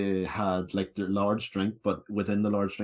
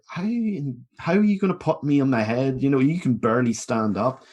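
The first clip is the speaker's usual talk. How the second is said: stunned disbelief; 4 semitones higher, 4 dB louder than usual. Retold or imitated. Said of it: "looking at him stunned as if to say".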